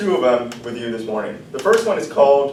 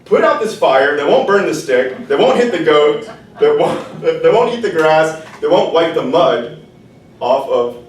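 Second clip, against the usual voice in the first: bossy rooster order; 2 semitones higher, 5 dB louder than usual. Acted. The rooster ordering the water, loud and bossy. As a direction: stumble through the chain, laughing.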